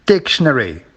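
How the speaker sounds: Dictionary with DIC stressed; DIC-tionary, as a stress demo; stress on first syllable. Shown as a demonstration. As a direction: hit the start of Dictionary. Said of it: "at the beginning".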